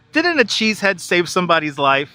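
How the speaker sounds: rereads the line through a laugh. Real, not acted. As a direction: chuckle while repeating the question. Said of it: "Didn't a cheese head save somebody's life once?".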